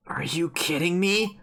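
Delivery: restrained disbelief. Acted. Character confronting blatant lies, controlled disbelief. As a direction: hold the outrage back, drawing out each word. Character's line read after shock.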